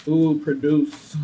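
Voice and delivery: slow, savouring ooh produce; drawn-out delighted produce; relishing the word. Shown as a demonstration. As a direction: roll produce around slowly like a treat.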